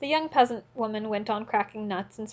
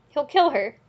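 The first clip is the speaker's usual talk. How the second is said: higher, louder alarmed cry; shout; 5 semitones higher, 5 dB louder than usual. A narrator's reading. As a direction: cry out in horror. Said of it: "they shouted all round".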